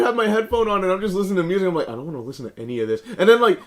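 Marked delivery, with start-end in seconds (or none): 1.9-3.0 grumbled. Retold or imitated. Reluctant quote.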